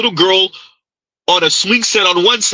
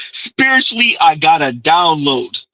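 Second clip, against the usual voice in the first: mock spiritual download; mocking imitation. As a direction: drag out her words in mock awe.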